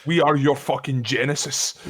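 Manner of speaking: slow, hammed-up proclamation; pompous mock-epic line; mock-grandiose. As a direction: pronounce it like a creator.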